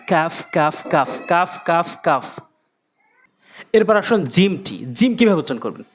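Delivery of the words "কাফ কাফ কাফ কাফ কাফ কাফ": কাফ with a light k just forward of the tongue root; articulated kaf. Shown as a demonstration. Teacher drills learners on the letter, repeated light কাফ. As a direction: repeat কাফ crisply against the palate. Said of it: "জিহ্বার গোড়া থেকে একটু আগে".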